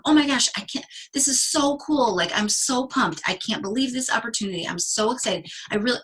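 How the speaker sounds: acted-out excitement, pitched high at first then easing down; gushing excitement. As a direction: gush like a thrilled newcomer. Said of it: "your excitement went from".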